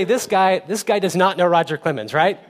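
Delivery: giggling at the stranger; amused laughing quote; laughing aside. Retold or imitated. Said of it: "So we can say".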